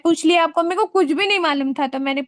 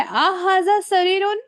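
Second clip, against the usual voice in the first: slow loud question; 3 semitones higher, 4 dB louder, slower than usual. Shown as a demonstration. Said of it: "मैं आपसे पूछ रही हूँ".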